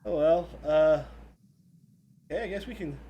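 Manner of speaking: a cheerful talking elevator. Acted. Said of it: "he goes".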